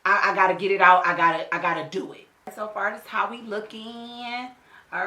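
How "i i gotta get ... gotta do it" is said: worked-up resolve. Retold or imitated. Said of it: "I was like".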